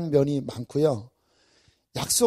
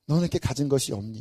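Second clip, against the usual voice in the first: mock sneer; 5 semitones lower, 6 dB quieter, faster than usual. Quoting an insult.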